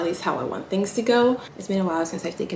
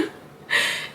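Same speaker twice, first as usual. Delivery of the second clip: shaky sigh. Real, not acted. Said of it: "I'm trying not to cry".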